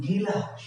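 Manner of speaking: গিলাস as gi-las, cluster broken; গিলাস, rural form; mother's pronunciation. Retold or imitated. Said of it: "তিনি বলছেন কি".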